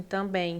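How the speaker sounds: "Também" with the final "em" lengthened into "ẽj"; stretched vowel. Shown as a demonstration. Teacher stretching the word for the class to hear the I. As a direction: draw out the end of "Também" so the I is heard. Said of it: "é como se fosse assim".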